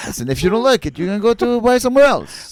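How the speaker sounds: a hint of a shameless trader; lightly voiced hard-nosed vendor. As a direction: haggle like a pushy merchant, stretching the punchlines. Plays haggling water seller.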